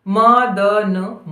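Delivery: slow dictation, each sound held apart; syllable by syllable. Shown as a demonstration. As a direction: stretch out म, द, न one by one. Spelling a word out for dictation.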